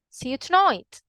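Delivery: Birmingham accent, tonight with an oy vowel. Shown as a demonstration. Teacher comparing two accents, Birmingham accent. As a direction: say it in Birmingham English, tonight like boy. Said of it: "with the Birmingham English".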